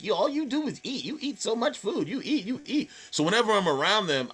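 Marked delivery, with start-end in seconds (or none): 0.0-2.9 nagging aunts. Retold or imitated. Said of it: "my aunts and stuff would always be like".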